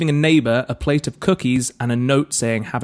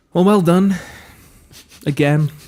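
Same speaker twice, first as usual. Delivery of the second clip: grudging, bitter, resentful delivery, slightly high; 5 semitones higher than usual. Congratulating the other speaker on taking the lead: bitter. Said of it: "you don't sound bitter at all".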